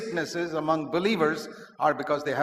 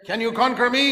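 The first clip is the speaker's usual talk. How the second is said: loud, high-pitched taunting dare; Goliath's challenge; 7 semitones higher, 7 dB louder than usual. Acted. Goliath standing before the trembling Israelites, loud challenge. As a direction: throw down the giant's challenge loudly.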